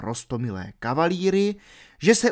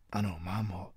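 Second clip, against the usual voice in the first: breathless whispered reply; whispered mumble; 6 semitones lower, 13 dB quieter than usual. A narrator's reading. Will whispering back to Robin, barely audible. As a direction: answer without being heard. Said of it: "zamumlal Will".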